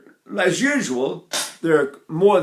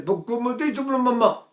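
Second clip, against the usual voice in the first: dialect Italian; 9 semitones higher, slower than usual. Retold or imitated. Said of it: "They say".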